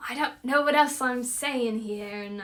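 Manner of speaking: unsure attempt at a Scottish accent. Shown as a demonstration. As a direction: have a go at sounding Scottish. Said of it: "I get a Scotland accent".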